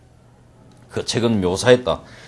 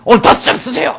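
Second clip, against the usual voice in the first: fast, chuckling mock order to the reporter; the editor ordering Samson to write five pages, laughing fast; laughing editor's order; 6 semitones higher, 3 dB louder, faster than usual. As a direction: give the order while cracking up, quickly. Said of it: "이렇게 하고, 그죠?".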